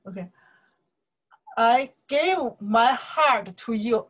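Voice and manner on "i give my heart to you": slow, drawn-out lyric recital; reciting the lyric slowly and tenderly; slow lyric reading. Shown as a demonstration. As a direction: savour each word like a love-song line. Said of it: "What I say here?".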